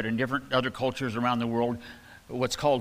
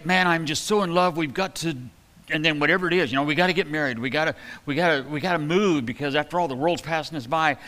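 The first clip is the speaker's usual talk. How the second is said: mock impatient lover; 4 semitones higher than usual. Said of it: "we'll say".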